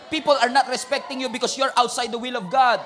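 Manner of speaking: loud, building proclamation; rising preaching shout. Real, not acted. Preacher driving home the point, building to a shout. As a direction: hammer each line harder.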